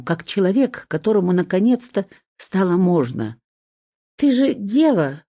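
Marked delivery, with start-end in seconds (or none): 4.2-5.2 higher-pitched, mildly emotional outburst; exclaimed on a breath. A narrator's reading. Tearful bride-to-be blurts at her suitor, exclaimed on a breath. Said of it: "выдохнула я".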